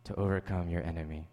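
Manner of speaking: hammed-up low mentor voice from an old dubbed film; mysterious mentor. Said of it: "He says".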